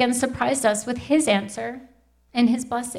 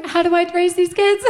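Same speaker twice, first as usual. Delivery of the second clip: laughing; 6 semitones higher than usual. Retold or imitated. I'm like.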